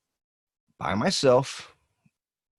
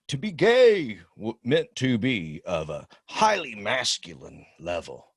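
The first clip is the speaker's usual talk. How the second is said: meme voice; 3 semitones higher than usual. Acted. Reading meme in voice.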